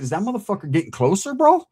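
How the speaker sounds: loud call across the dark, jumping high on bro. Retold or imitated. Out fishing at night, calling loudly at a figure across the water. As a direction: shout it so the thing hears you. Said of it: "And I say it loud".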